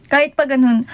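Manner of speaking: usual speaking voice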